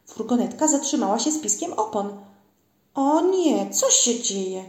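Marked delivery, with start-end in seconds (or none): 2.9-4.6 mildly startled calling out; alarmed cry. A narrator's reading. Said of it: "zawołały Rzekotki". (zaniepokojone zawołanie)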